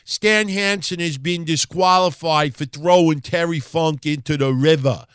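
put-on New York accent. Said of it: "You hear the referee with a real deep New York an-, accent".

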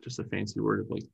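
warbly, watery audio; underwater voice. Real, not acted. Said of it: "it suddenly sounds like your voice is underwater".

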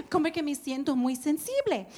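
soft, laughing self-mockery. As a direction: giggle through the admission. Pide platicar, riéndose. (riéndose bajito de sí misma)

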